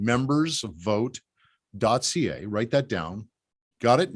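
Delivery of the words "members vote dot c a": each word stretched out for note-taking; very slow dictation. Shown as a demonstration. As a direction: dictate it word by word so nobody misses it.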